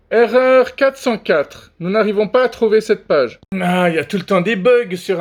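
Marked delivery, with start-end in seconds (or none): 0.1-3.4 error message voice. Acted. Reading a TikTok error page aloud, lightly robotic announcement. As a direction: read it out like an automated error notice.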